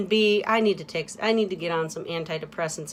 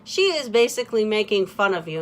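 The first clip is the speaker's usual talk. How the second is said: friends' explanation; 2 semitones higher than usual. Retold or imitated. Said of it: "they're like".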